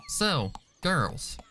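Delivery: high, bouncy filly voice; eager filly. A narrator's reading. Apple Bloom asks her friends the plan, eagerly. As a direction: ask like you're prancing along. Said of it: "Apple Bloom asked".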